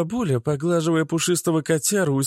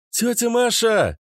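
calling out; 5 semitones higher, slower than usual. Acted. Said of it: "крикнула я изо всех сил".

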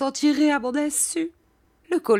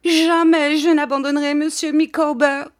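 loud, high vow; frantic cry; 10 semitones higher, 6 dB louder than usual. A narrator's reading. Wife struggling, vows loyalty to her husband, frantic. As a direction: hurl it out, high and overwrought. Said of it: "s'écria mistress Micawber en se débattant".

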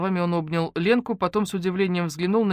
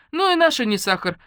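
ordinary delivery

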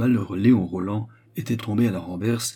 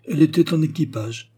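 put-on high, loud gossipy old widow; gossiping concierge; 7 semitones higher, 6 dB louder than usual. A narrator's reading. Concierge describes Eugénie to Léon, high loud gossiping voice. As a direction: pile on the scandal in a high voice.

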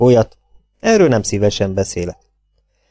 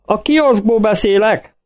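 shouting into phone; 11 semitones higher, slower than usual. A narrator's reading. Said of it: "ordította folytott hangon".

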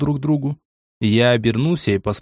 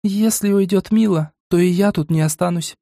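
высокий девичий голос, медленно и твёрдо; твёрдо заявляет о решении; серьёзно; 7 semitones higher than usual. A narrator's reading. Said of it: "серьёзным голосом". (серьёзным высоким голосом, медленно)

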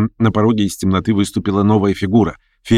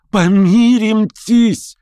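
much higher and louder, drawn-out Помиримтесь; desperate cry; 13 semitones higher, 4 dB louder, much slower than usual. A narrator's reading. Verkhovensky crying Помиримтесь to Stavrogin, high and drawn out.

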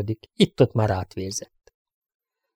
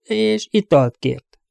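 put-on timid girl; 10 semitones higher, much slower than usual. Amy continuing, high, hesitant.

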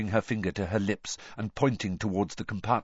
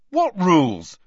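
loud, high, urgent question; eager chorus; 10 semitones higher, 9 dB louder than usual. A narrator's reading. Children all asking mother at once, eager. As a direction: burst out with the question. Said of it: "Ron, Fred and George together".

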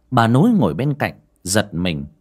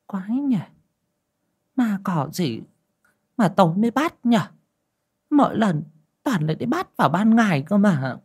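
put-on a lightly raised puzzled old woman's voice; muttering to herself; 10 semitones higher than usual. A narrator's reading. Wife muttering to herself as she walks back in, puzzled. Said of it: "quay vào lẩm bẩm".

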